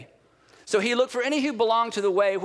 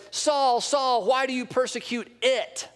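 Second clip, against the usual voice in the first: voice from heaven; 3 semitones higher, slower than usual. Acted. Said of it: "this voice would have said".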